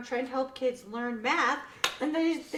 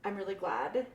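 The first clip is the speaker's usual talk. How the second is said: quiet; 5 semitones lower, 8 dB quieter than usual. Retold or imitated. Quoting the girl softly.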